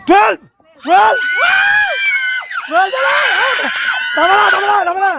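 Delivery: high, frantic number call; excited shouting. Real, not acted. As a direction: shout it and hurry them along. Urging player on after number called. (pasigaw na nagmamadali)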